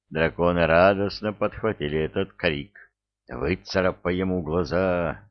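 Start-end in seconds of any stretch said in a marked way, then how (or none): none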